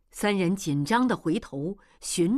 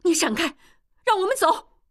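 much higher, louder angry outburst; a woman furiously ordering him aside; sudden anger; 11 semitones higher, 7 dB louder, faster than usual. Acted. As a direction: snap at him to get out of the way. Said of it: "莲花突然发怒".

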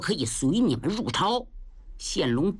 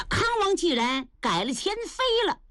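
crying confession; 8 semitones higher than usual. Acted. The old father weeps while admitting his mistake to his daughter. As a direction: voice breaking into a sob.

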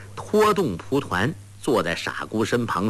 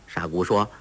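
plain reading voice

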